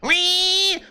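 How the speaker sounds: high, drawn-out imitated engine squeal; long shrieky mock rev; crying car whine. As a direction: imitate a car wailing like a baby. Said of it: "like you're crying".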